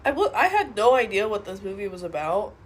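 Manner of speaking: sick, stuffy nose; talking with a blocked nose. Real, not acted. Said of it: "if I sound sick, I am sick".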